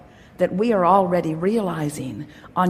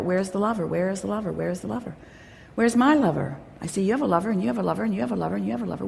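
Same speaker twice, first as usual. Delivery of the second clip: mock whining; 5 dB quieter, much faster than usual. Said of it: "stop acting like that".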